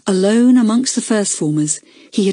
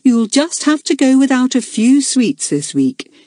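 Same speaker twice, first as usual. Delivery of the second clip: kindly; 7 semitones higher than usual. A narrator's reading. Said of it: "Rita said kindly".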